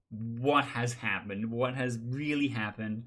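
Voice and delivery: slow, emphatic retold disbelief; mock bewilderment. Everyone reacting to four Snake Charmers, mock bewilderment. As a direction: stretch it out as a baffled crowd.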